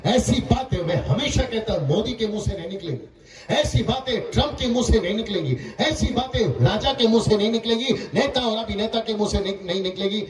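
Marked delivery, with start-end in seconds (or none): 3.5-10.3 insistent, repeated sermon phrases; emphatic preaching. Real, not acted. Preacher telling the crowd whose mouths never say this, preaching. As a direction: drive each repeated phrase home.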